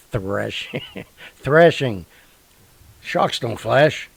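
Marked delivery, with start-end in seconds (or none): 0.0-2.1 amused at his own slip, louder on the repeat; laughing self-correction. Real, not acted. Host corrects his slip about the shark, laughing. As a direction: laugh through the corrected word.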